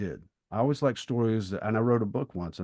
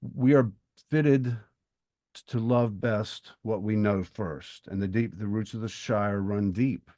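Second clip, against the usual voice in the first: quoting Merry, earnest. Retold or imitated. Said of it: "He said".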